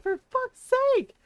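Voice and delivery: high, loud exasperated swear; exasperated curse. Retold or imitated. Gamer imitating husband's exasperated curse, high and loud. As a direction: throw up your hands and curse. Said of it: "He's like".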